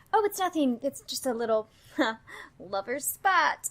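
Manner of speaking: breezy, chuckling dismissal; smarmy brush-off. Acted. Man brushing off strangers over a lovers' spat, smarmy brush-off. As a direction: play it down with an awkward little laugh. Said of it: "You sound like an asshole".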